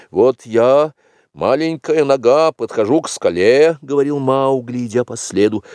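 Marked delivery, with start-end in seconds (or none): 0.1-3.8 put-on high, lively boy's voice; eager young Mowgli. Mowgli answering as the little foot, eager and high. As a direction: play along with childlike keenness.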